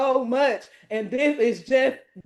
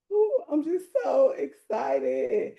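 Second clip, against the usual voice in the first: teary joy. Real, not acted. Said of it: "I'ma cry".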